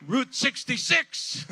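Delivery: high, loud and slow, breaking into a laugh; laughing punchline. Real, not acted. Host caps his boast to the crowd, laughing. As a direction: laugh as you land the line.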